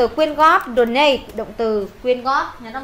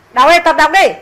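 raised voice pushing the class to read; loud urging; 3 semitones higher, 6 dB louder, faster than usual. Real, not acted. Teacher loudly tells the class to start reading. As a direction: call out firmly so they start reading.

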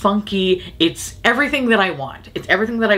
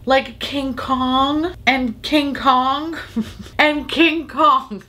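laughing; 8 semitones higher, much slower than usual. Real, not acted. Laughing repeats King Kong.

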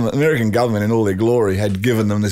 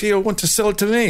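high, quick mock protest; imitated rival buyer; 10 semitones higher, faster than usual. Rival buyer objecting to the sale, high mock protest. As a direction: play the indignant rival in a raised voice. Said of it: "the other Jap guy goes".

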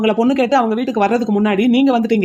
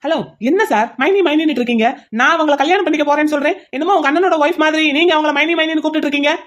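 angry fiancé raising his voice at the intruder; raised voice; 5 semitones higher than usual. Acted. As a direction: push your voice up at the rival. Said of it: "சத்தமா பேசாதீங்க".

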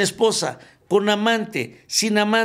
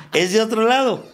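laughing repeat; 5 semitones higher, 3 dB louder than usual. Real, not acted.

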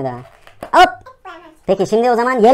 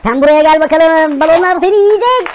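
playful monster threat; 7 semitones higher, 7 dB louder, slower than usual. Pretend.

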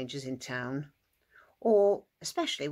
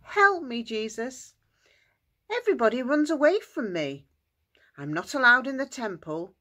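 higher-pitched, acted cry for help; tearful pleading; 5 semitones higher than usual. Man with leprosy kneeling before Jesus, tearfully pleading. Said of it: "knelt down in front of Jesus and cried and cried".

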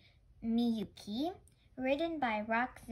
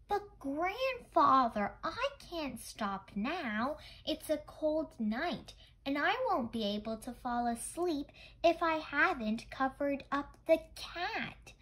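put-on pleading child; 5 semitones higher than usual.

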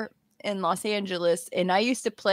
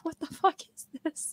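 stunned dad; 6 semitones higher, 9 dB quieter than usual. Retold or imitated. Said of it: "Excuse my French".

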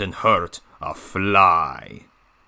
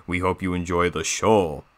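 softer villain train voice; Diesel 10; 2 semitones lower, 5 dB quieter than usual. Acted. Villain diesel addressing the viewers, softer put-on voice. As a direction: sign off as the villain, dropping the volume. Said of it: "doing my own Diesel ten voice impression".

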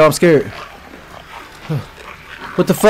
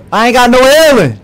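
frantic cry; 8 semitones higher, 3 dB louder than usual. Real, not acted. Desperate, low on health.

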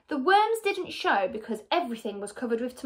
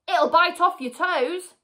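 put-on gleeful taunting old man; 6 semitones higher, 5 dB louder than usual. A narrator's reading. Mr Twit taunting.

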